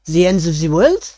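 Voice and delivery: a chef startled by the news; mock terrified. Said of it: "he looks at you, like, terrified".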